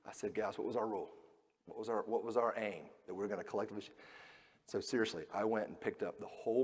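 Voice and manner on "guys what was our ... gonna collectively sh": stern quiet dad. Retold or imitated. Dad scolding kids quietly.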